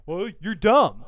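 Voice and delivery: hammed-up squabbling retort; mock arguing. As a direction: shout back a play-acted insult. Acting both sides of a quarrel.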